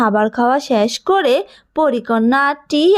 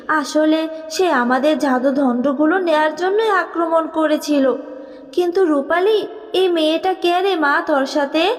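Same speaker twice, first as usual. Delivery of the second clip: tender fairy mother; 3 semitones higher than usual. Acted. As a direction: call your lost child home. Fairy mother talks to daughter.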